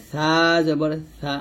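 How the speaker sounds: slow সা, tongue on upper teeth edge; tongue-tip sa. Shown as a demonstration. Teacher recapping tongue position, tongue-tip sa. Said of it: "জিহ্বাটা উপরে যাতে আগে লাগবে".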